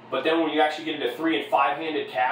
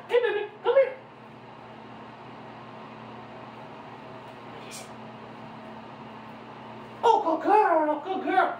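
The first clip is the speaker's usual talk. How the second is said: schoolgirl voice; 4 dB quieter than usual. Real, not acted. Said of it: "schoolgirl voice".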